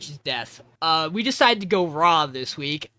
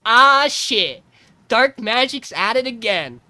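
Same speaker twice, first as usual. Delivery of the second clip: mock exasperated curse; 4 semitones higher, 8 dB louder, slower than usual. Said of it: "And she goes".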